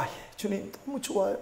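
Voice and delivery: soft, moved reply to God; hushed grateful yes; quiet answer. Retold or imitated. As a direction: answer the Lord almost under breath.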